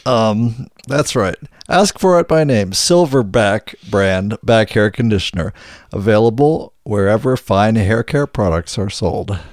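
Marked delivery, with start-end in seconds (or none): 1.7-9.4 put-on cheery old-time radio announcer; chipper 1950s ad. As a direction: pitch it like a vintage commercial. Closing tagline of mock ad.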